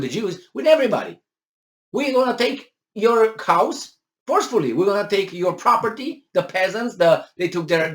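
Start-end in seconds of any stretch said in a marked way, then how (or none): 1.9-6.3 mock threat. Voicing communist confiscators.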